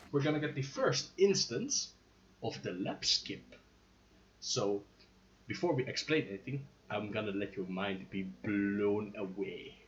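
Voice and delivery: dramatic eighties trailer narrator; low, hushed build-up like a trailer; movie trailer voiceover. Acted. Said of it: "You sound like an eighties, uh, movie trailer voiceover".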